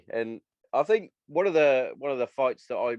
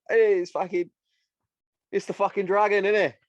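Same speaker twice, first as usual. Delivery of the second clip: higher, excited fan voice; imitating starstruck fans; 9 semitones higher, 3 dB louder than usual. Fans at a UFC expo meeting the fighter, excited and high. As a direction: gush like a fan meeting his hero. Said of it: "they'd all be like".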